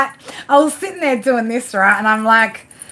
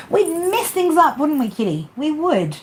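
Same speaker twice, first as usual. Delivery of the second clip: higher, sing-song talk to the cat; pet talk; 6 semitones higher than usual. Real, not acted. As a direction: chat sweetly up high to the kitty. Talking to cat.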